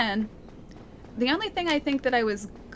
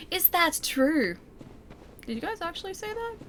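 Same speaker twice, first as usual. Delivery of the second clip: mock outrage; 6 semitones higher than usual. Real, not acted. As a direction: feign shock at the chat. Mock outrage at chat claim.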